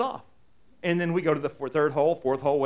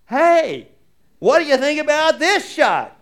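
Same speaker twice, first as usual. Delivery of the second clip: much higher and louder eager call to the caddy; humble call for help; 11 semitones higher, 13 dB louder, slower than usual. Retold or imitated. Finally asking the caddy for help on the course, a high loud eager call. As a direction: call out for help, swallowing your pride. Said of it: "humble myself and say".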